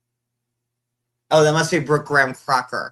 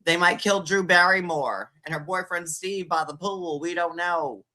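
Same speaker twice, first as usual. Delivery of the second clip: raised, gasping horror-movie voice; pitched-up mock fright; mock scared viewer; 5 semitones higher than usual. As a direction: play a nervous viewer watching a slasher film. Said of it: "She's like".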